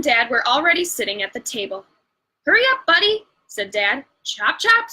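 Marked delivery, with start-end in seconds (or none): 2.4-3.3 high, loud hurry-up call; a dad hurrying a dawdler at the table; hurrying the sloth along; brisk urging. Acted. Dad hurries slow sloth. 4.2-4.9 brisk chop chop. Acted. Mom hurries the sloth.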